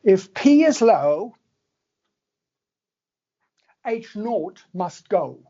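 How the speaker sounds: slow, emphatic attempt at an Australian accent; a self-confessed poor Australian accent, drawn out. Shown as a demonstration. Lecturer to students, rhyme in a mock Australian accent. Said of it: "you need to say that with an Australian accent".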